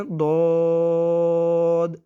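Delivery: دود said slowly and held, apart from الف; drawn-out letter name. Shown as a demonstration. Teacher demonstrating how to read each letter separately. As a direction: pronounce دود long and separate. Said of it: "جیسے یہ لفظ پڑھا گیا نا".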